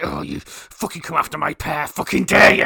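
lightly acted growling dog threat; mock threat from a growly dog. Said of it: "she actually growls like she's gonna attack you".

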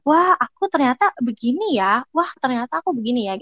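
lightly acted wonder at oneself; touched amazement. Looking back over your own CV, mildly touched wonder. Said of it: "Kayak aku terharu sendiri gitu".

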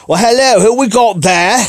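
high, hammed-up Cockney, breaking into a stretched singsong wail; punk singer impression. Rock hero greeting a fan on Skype, mock Cockney. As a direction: go broad Cockney and draw the last word out. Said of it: "you know, his Cockney accent".

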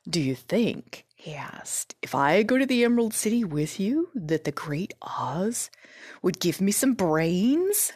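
lightly voiced straw man, hopeful question; a hint of husky, wistful scarecrow. Scarecrow asks Dorothy whether Oz would give brains, hopeful.

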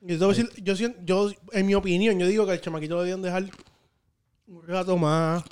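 talking with ice in mouth; mouth full. Real, not acted. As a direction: speak around a mouthful of ice. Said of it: "Traga primero".

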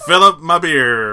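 loud laughing auction call. Real, not acted. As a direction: laugh through the line.

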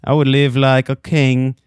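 normal talking voice

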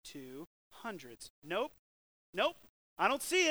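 counting servant. Retold or imitated. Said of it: "the guy's, like, going".

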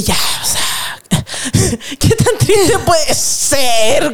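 mock nonchalance. Se cita a sí misma.

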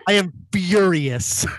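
slow, deliberate mock fury. S0 pretending outrage over a comment, slow mock fury. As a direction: drag out fake rage slowly. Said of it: "No, I'm kidding".

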